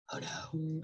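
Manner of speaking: whispered mock "oh no"; mock alarm. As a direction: breathe it out as a fake fright, then drop it. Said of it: "I'm just kidding".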